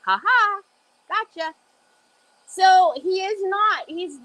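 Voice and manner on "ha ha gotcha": put-on gloating kid. Voicing son's gloating.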